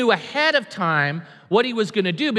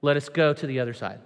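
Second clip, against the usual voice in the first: just invite, no promises; simple invitation; 6 semitones lower, 3 dB quieter than usual. Shown as a demonstration. Jesus simply inviting followers, low and calm. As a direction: lower and softer, "Let us go to the other side" plainly offered. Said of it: "He just says".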